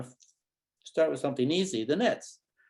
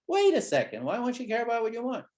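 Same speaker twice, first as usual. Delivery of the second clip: higher, louder baffled question; mock puzzlement; 9 semitones higher, 3 dB louder than usual. Shown as a demonstration. Therapist questioning a child in a demo, mock puzzlement. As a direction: play dumb to draw him out.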